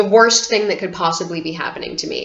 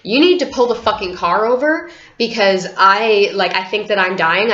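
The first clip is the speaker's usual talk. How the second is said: mock-frantic shout at dad; panicked demand; 3 semitones higher, 3 dB louder than usual. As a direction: beg him desperately to stop the car.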